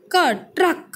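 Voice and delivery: ट्रक said as one cluster, tra with no vowel between; ट्रक, ट and र joined as tr; correct trak. Shown as a demonstration. Teacher to students, shows the cluster ट्रक said smoothly. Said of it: "हम इसको टरक नहीं बोलेंगे".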